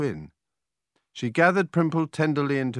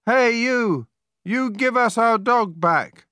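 high, loud demand hurled after a thief; angry shout; 9 semitones higher, 5 dB louder, slower than usual. A narrator's reading. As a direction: shout indignantly, pitched well up. Joel shouts at departing witch.

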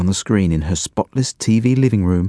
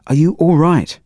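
higher, louder worried shout; frantic shout; 9 semitones higher, 4 dB louder than usual. A narrator's reading. Angus shouting through the door to his stuck brother, frantic. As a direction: yell it through the door in alarm. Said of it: "shouted Angus frantically".

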